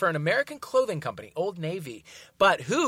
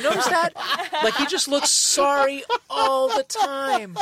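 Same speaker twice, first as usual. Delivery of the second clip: laughing; 8 semitones higher, 4 dB louder, slower than usual. Real, not acted. Laughing at Broderick ad.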